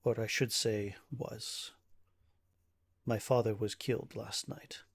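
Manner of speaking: slow, grave correction, lightly acted; a hint of a bereaved nobleman's formality; weary burgomaster's son. Ismark tells an adventurer of his father's death, understated gravity. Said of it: "and he says".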